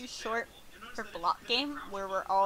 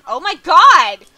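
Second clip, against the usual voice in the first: loud, high, drawn-out disbelief through laughter; real laughing shriek of disbelief; incredulous laughing outburst; 10 semitones higher, 15 dB louder than usual. Real, not acted. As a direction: cry out laughing, much higher and louder. Shrieking laugh at in-game chaos.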